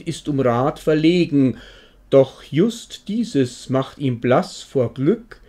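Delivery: measured, deliberate recital of comic verse; poem recitation. Acted. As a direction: recite it line by line, slowing on key words. (Gedicht vortragen, getragen und betont)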